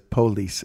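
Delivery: "police" as POH-lees; Southern first-syllable stress. Retold or imitated. Host imitates the audiobook reader, "police" stressed on PO. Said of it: "that's how he does it".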